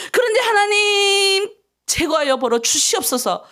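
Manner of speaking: high, earnest prayer voice with a catch of tears; pleading prayer. Acted. Pastor praying aloud for the congregation's sins, pleading. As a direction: pour out the confession to God.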